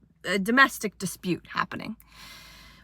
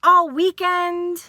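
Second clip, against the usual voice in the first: hammed-up screaming ex; mock yell; 7 semitones higher than usual. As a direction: scream at her partner. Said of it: "She's screaming at her".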